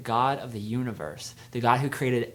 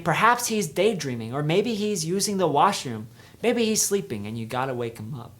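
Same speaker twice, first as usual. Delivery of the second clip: higher, louder teasing jibes; mocking sarcasm; 4 semitones higher, 5 dB louder than usual. Elijah mocking the silent idol to the prophets, sarcastic teasing. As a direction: poke fun at their sleeping god. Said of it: "trash talk and speak with sarcasm".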